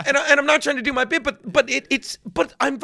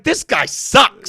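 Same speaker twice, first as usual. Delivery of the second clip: loud, high, drawn-out jeer; heckling shout; 6 semitones higher, 6 dB louder, much slower than usual. Retold or imitated. Actors jeering his imagined Shakespeare, exaggerated heckle. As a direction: yell it slowly as a mock heckle.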